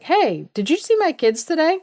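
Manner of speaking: high, anxious mother calling out; worried mother asking the neighbor about her kids. Retold or imitated. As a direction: ask about her missing kids, pitched well up. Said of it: "was like".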